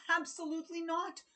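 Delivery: high, loud, fast refusal from the dad; King Carl crying absolutely not; cried out. Acted. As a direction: snap out a shocked no as the king. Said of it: "cried King Carl".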